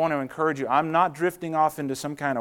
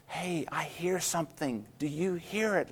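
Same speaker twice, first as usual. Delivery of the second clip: softly voiced, not quite whispered; quiet wind whisper; 2 semitones higher, 7 dB quieter than usual. Wind telling the little sheep what it hears, quietly. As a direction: quietly share a secret, lightly acted. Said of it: "starts out very quietly with a whisper of".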